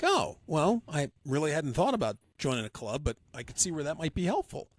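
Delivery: mock surprise. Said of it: "And I'm like".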